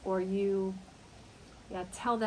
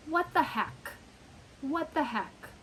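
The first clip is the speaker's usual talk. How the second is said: exasperated husband; 4 semitones higher than usual. Retold or imitated. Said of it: "another driver does something stupid".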